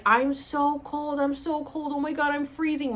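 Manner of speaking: re-enacted high, stretched complaint; mild retold panic about being cold; freaking out. Storyteller replaying herself freezing on the grass, mildly freaked out. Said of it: "so I'm freaking out".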